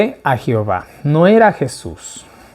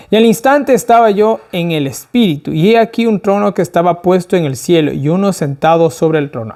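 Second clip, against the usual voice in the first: scripture reading; 2 semitones higher than usual. A narrator's reading. Preacher reading the verse to the study group, declaimed reading. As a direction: read out the verse in a raised, declaiming voice.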